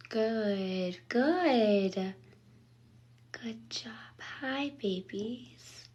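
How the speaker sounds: high, hushed praise for the kittens; pet praise. Real, not acted. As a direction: cheer on the cats like babies. Praising and feeding the cats.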